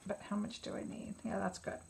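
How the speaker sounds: a hushed whisper to herself while judging paint; whispered aside. Real, not acted. Crafter checking her paint, whispering to herself. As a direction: whisper it under your breath, thinking aloud. Muttering to herself mid-task.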